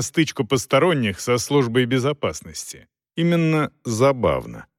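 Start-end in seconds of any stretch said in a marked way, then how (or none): none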